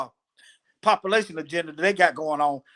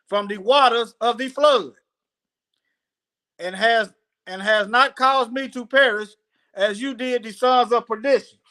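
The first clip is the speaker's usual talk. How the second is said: raised, deliberate reading voice; scripture reading; 3 semitones higher than usual. Acted. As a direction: read it out phrase by phrase. Reads Noah's prayer aloud.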